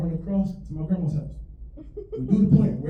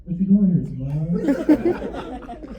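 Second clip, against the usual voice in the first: tough guy dog voice; menacing dog voice; much slower than usual. Retold or imitated. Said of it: "He came out and said".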